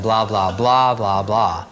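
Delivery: breezy throwaway blah blah in a changed voice; dismissive blah blah. Real, not acted. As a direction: toss off the rest as boring boilerplate. Dismissive list of warnings.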